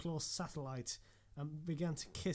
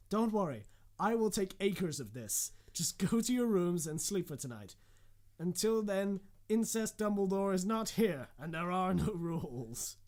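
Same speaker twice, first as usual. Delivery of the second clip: hearty teacher voice; 4 semitones higher, 6 dB louder than usual. Acted. Teacher reassures students.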